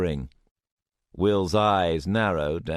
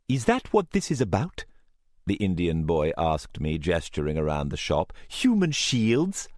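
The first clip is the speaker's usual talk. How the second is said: put-on sneering young man. Indian boy sneers.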